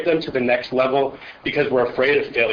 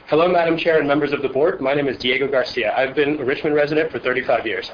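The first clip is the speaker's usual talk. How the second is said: reading while short of breath; breathless, catching air between phrases. Real, not acted. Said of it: "Sorry, a little out of breath".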